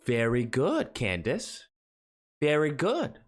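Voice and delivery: put-on talking to a toddler. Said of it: "She talks like, you know, like a three-year-old".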